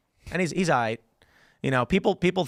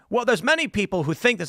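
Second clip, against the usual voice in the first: flustered journalist; 7 semitones higher than usual. Retold or imitated. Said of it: "And he's like".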